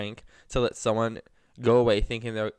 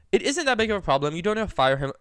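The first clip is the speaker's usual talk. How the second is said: backtracking customer; 4 dB louder than usual. Retold or imitated. Angry customer takes it back to save the worker, mock backtracking. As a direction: imitate an angry customer hurriedly backing down. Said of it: "The angry guy started to backtrack".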